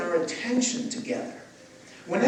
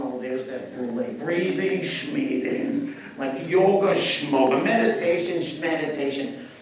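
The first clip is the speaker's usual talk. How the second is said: mocking scoff; 4 semitones lower than usual. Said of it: "they run".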